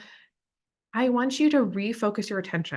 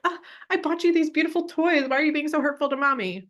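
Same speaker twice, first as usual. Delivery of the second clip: much higher, hurt and whiny; victim mommy; 8 semitones higher, 3 dB louder than usual. Shown as a demonstration. Mother playing victim to refusing child, hurt whine. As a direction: play the wounded mother. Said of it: "I'm being the victim".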